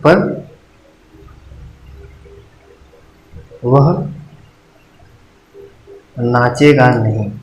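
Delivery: पर lifted, then a long pause and a slow नाचेगा नहीं; drawn out with pauses. Shown as a demonstration. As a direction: hold पर, then ease slowly into नाचेगा नहीं. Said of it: "लोप का चिन्ह का उपयोग". (पर पर ज़ोर, फिर धीमे से नाचेगा नहीं)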